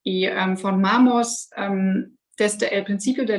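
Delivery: Spanish spoken with a German accent; careful Spanish from a German speaker. Real, not acted. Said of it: "soy alemana y mi español es, eh, muy mala".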